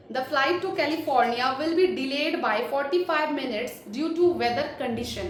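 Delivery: slow, careful read of a flight delay announcement; airline announcement demo. Shown as a demonstration. Trainer demos the accent-round audio, slow announcer read. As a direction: read it out like a gate announcement, very slowly. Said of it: "वो एकदम British और, British और या फिर American accent में बोलेंगे".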